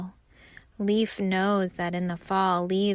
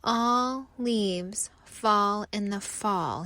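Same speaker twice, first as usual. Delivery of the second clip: sad inner thought; slower than usual. Acted. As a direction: think it to himself, giving up. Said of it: "he thinks".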